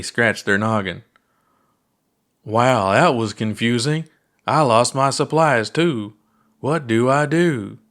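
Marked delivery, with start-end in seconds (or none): 2.4-7.8 hammed-up puppet pilot. Puppet pilot lost supplies.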